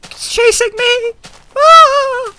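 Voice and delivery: very high screaming; terrified scream. Real, not acted. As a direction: scream as it chases you. Mob chasing him.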